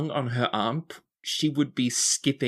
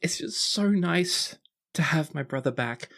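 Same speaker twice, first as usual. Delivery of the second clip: put-on higher, tender girlish voice fading out; heartfelt tipsy sister; 4 semitones higher than usual. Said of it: "look of abandon in her eyes".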